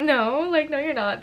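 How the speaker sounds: retold disbelief. Girlfriend reacting as he says her name, disbelieving. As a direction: act out refusing to believe it. Retold shock at surprise proposal.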